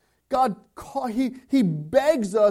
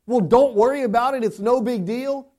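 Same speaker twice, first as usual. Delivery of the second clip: dismissive quote; 3 semitones higher, 6 dB louder than usual. Retold or imitated. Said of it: "is your response".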